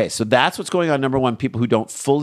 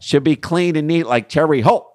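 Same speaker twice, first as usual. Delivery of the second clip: put-on Philly accent; 4 semitones higher than usual. Host riffing on Philly Zoom porn, in a hammed-up Philly accent. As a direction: lay on a thick Philly accent.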